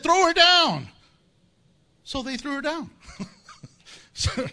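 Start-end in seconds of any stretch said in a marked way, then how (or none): 0.0-0.9 higher, loud order; Jehu orders the eunuchs, loud and commanding; commanding shout. Retold or imitated. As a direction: bark it up at the window. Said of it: "Then he said".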